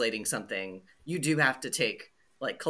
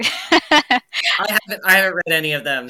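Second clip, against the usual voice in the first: loud, higher, stretched then rushed; sheepish exclamation; 6 semitones higher, 11 dB louder than usual. Real, not acted. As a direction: drag out the first I, then blurt.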